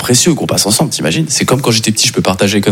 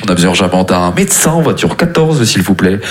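imitated train tannoy announcement; lightly put-on announcer voice; odd PA announcement; 3 semitones lower than usual. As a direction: mimic a strange onboard microphone call. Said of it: "annonce micro un peu bizarre".

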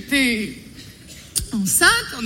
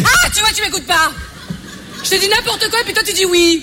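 louder, laughing gotcha; caught you out; 5 semitones higher, 3 dB louder than usual. Acted. Bride catching her fiancé out, loud and laughing. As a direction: pounce on him for not listening. Catches him not listening.

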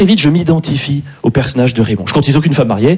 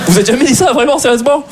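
incredulous; 8 semitones higher than usual. Real, not acted. Incredulous at audience's reaction.

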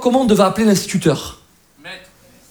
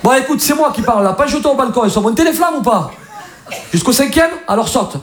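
Marseille fireman talking a caller through it; lightly raised Marseille-accented voice; 4 semitones higher than usual. Acted. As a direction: take charge in Marseille accent. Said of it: "C'est ça, l'accent".

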